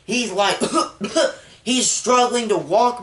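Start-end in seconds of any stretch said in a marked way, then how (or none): 0.6-1.3 short mimed hacking cough; imitated blood cough. Movie fan mimics wounded Logan, mock coughing. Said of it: "he's coughing up blood".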